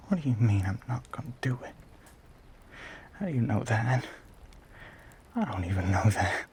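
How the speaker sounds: quick, incredulous retort; flustered protest. Acted. Monster challenged by the woman on his porch, flustered.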